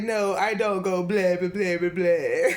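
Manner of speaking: cartoon Dracula, huffy. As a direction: protest "blah" like a cartoon Dracula. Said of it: "he was like".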